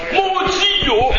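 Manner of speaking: high, loud mock outburst; angry Montreal driver. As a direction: yell like a blocked Montreal motorist. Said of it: "imagine this happening in Montreal".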